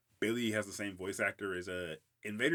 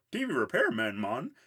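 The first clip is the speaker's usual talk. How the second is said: dopey Billy voice; 3 semitones higher, 6 dB louder than usual. Retold or imitated. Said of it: "And Billy says".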